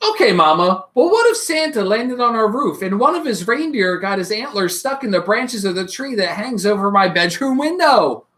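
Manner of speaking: put-on eager little child calling Mama; a child pestering with questions; small child full of what-ifs; curious child.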